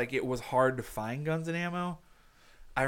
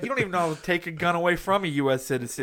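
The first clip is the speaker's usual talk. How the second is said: put-on hillbilly accent; 5 semitones higher, 5 dB louder than usual. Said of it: "I'm still in a hillbilly accent".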